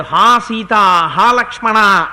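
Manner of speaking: slow, drawn-out anguished call; mild mock wail for Sita and Lakshmana; loud cry. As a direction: cry out the names slowly. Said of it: "గట్టిగా కేకేశాడు".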